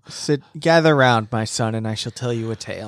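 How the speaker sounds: ominous storyteller, hushed and quick; horror host. Pretend. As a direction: beckon listeners like a spooky host. Mock storyteller invitation.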